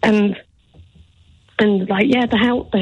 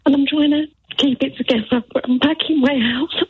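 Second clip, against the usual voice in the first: overwhelmed; 2 semitones higher than usual. Real, not acted. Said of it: "I'm sorry, I don't mean to be like".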